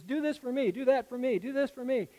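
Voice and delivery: a crowd calling out for favors; clamoring demand. Retold or imitated. Crowd clamoring at Jesus for favors, loud and high. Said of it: "Everybody's calling out to Jesus".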